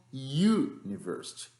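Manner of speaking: university said slowly, starting with a YU sound; university, English. Shown as a demonstration. Teacher models university for the class, slow. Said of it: "que é I U".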